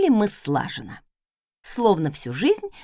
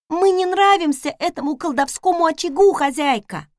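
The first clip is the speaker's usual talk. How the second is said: maid voice; 7 semitones higher, 4 dB louder than usual. Acted. Maid worried about stove.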